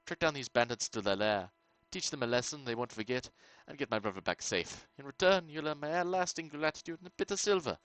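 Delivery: lightly voiced medieval lord giving a quest; a hint of a scheming nobleman's tone; quest giver voice. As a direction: read it as the town noble hiring a stranger. Reads quest giver dialogue.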